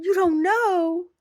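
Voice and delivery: drawn-out sweet voice; baby talk. Retold or imitated. Driver answering the dog, high slow baby talk. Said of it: "I said".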